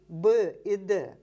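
slow, each consonant said apart and loud; isolated speech sounds. Shown as a demonstration. Lecturer demonstrating consonants to interviewer, slowly and clearly. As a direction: pronounce б and д slowly, one at a time. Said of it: "мы знаем, что есть там м".

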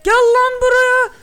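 screaming the shark over, stretched out; bigger drawn-out shout. Real, not acted. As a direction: drag it out at full voice. Chasing the shark.

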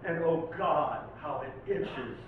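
dramatic, urgent poem recital; poetry reading. Acted. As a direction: warn the listener like a haunted stranger. Recites second Lovecraft poem.

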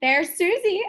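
gleeful witch pointing out a target; cackling witch. Acted. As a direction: cackle it out over the victim. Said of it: "Ophelia cackled".

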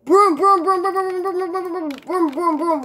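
high excited chanting. Real, not acted. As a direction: gleefully repeat the word broom. Excitedly spots the broom.

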